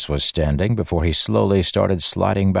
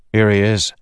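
calling out; 4 semitones higher, 4 dB louder than usual. Acted. Kaladin calls out finding Teft.

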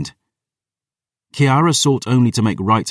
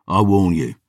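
growled warning; terse threat, held back from shouting; growling. A narrator's reading. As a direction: give a final warning with restrained menace. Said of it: "Aaron growled".

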